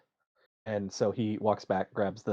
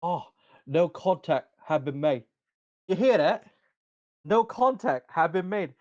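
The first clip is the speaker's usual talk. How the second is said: mocking guard; 5 semitones higher than usual. Guard repeating player's excuse to chuckling guards, mocking. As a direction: parrot the excuse to your fellow guards.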